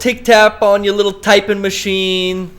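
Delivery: put-on slow, drawn-out Boston accent; Boston-accented jeer. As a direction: taunt slowly in a Boston accent. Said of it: "That was a Boston accent".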